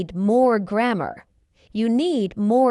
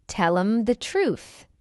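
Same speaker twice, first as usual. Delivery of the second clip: slow, measured "Tell 'em the truth"; slow model. Shown as a demonstration. Teacher models the phrase for learners first, slowly. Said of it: "fast English is not difficult".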